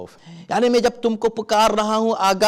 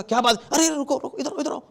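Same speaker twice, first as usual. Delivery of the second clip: calling back; 7 semitones higher, 4 dB quieter than usual. Pretend. Calling someone back from pit.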